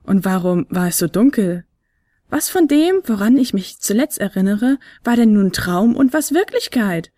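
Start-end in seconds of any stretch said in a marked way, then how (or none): 2.3-7.1 yawning. Acted. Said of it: "fragte Fionella gähnend".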